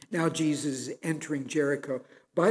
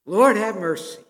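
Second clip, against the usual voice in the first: higher and louder, an exasperated aunt's sigh; Southern exclamation; 5 semitones higher, 7 dB louder than usual. Retold or imitated. A Southern family member reacting to news, exasperated exclamation. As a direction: toss it off like a Southern relative. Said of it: "a colloquial expression".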